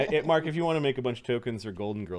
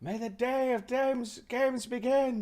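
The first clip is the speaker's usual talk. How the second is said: high, booming ceremonial proclamation; grand, high-pitched arena call; arena announcer; 13 semitones higher, 3 dB louder than usual. Acted. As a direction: open the games like a herald calling to a crowd.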